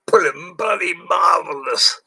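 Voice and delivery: excited shout. Real, not acted. Wishing viewers happy New Year, high excited shout. Drunk New Year's greeting.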